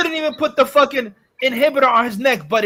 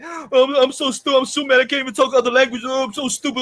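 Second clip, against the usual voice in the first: mocking Superman; 2 semitones higher than usual. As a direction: sneer it like a dim hero. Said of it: "he was mocking".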